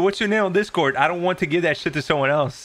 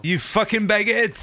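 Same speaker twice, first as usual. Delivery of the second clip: mock insult; 5 semitones higher than usual. Insulting the French player.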